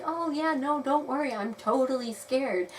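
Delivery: high-pitched sarcastic reassurance, easing down; mock reassurance. Player humouring the wolf who threatens to kill her, sarcastic. Sarcastic reply to would-be killer.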